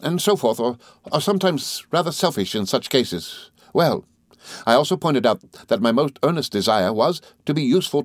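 lightly voiced good-natured friend; a hint of an earnest, rambling chatterer; Traddles, earnestly listing.

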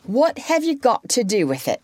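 sharp high demand. A narrator's reading. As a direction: snap at the kids. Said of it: "demanded their mother".

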